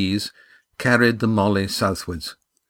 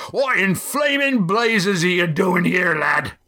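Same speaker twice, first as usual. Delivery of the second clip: gruff, high-pitched demand; a skipper catching a stowaway; 10 semitones higher than usual. A narrator's reading. Skipper demanding why the boy is aboard, gruff. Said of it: "demanded Roaring Jack".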